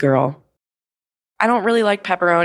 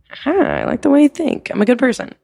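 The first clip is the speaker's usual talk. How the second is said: mock-proud reply; 6 semitones higher than usual. Joking self-defence to teacher.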